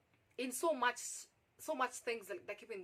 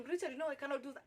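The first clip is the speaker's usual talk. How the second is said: fast, higher-pitched agitated refusal; 4 semitones higher, faster than usual. Retold or imitated. Applicant refusing the boss's proposition, agitated. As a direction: refuse in a hurry, mildly worked up. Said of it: "that particular time I'm agitated".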